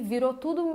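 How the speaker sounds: "tudo" sliding into one indistinct droning vowel; merged vowels. Shown as a demonstration. Speech coach shows viewers vowels all becoming one, "tudo" smeared. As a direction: trail "tudo" off into a shapeless mumble. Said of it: "você não tá respeitando o A".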